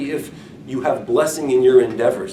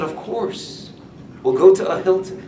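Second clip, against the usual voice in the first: wife's teasing reply; 7 semitones higher, 3 dB louder than usual. Retold or imitated. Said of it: "she said".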